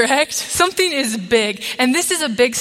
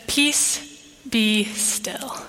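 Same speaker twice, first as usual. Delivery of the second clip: soft, near-whispered command to the storm; calm the sea with a hushed word; quiet, whispered "Peace, be still"; 6 dB quieter, much slower than usual. Acted. Jesus calms the storm.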